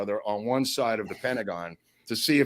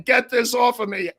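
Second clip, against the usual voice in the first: high-pitched mock yell; retold yelling, high and a little louder; 12 semitones higher, 5 dB louder than usual. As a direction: imitate an outraged yell, pitched well up. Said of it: "he's yelling".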